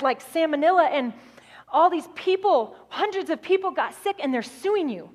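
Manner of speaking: mildly acted urgency over bad news; frantic. Operations manager telling his boss about a lawsuit, mildly frantic. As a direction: press each point home as an alarmed manager. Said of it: "He's frantic".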